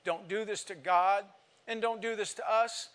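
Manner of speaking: retold pleading in tears that swells. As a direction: start soft and plead harder with each line. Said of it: "I pled with her in tears".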